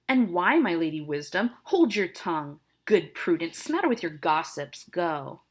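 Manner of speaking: angry father. Acted. Teacher voicing angry Capulet.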